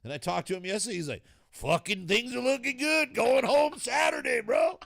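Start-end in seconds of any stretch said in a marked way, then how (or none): 1.5-4.8 high and loud, gleeful; excited shout. Retold or imitated. Kenny in hospital tells his friend he's going home, in a gleeful shout. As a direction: crow the good news like a shout.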